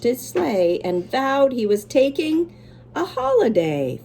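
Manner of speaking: lively rhyming read-aloud; story reading. A narrator's reading. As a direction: read it to the kids with bounce.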